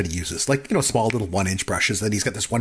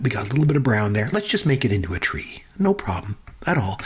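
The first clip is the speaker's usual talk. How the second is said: calm painter voice. Retold or imitated. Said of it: "just the way he talks".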